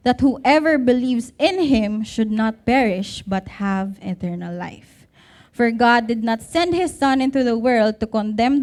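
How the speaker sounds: solemn scripture read from the pulpit. Acted. Reads John 3:16-17 aloud.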